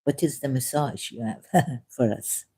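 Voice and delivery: low, soft mock French accent, breaking into laughter; Peter Sellers. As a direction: say "massage" for "message" in comic French accent. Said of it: "Peter Sellers".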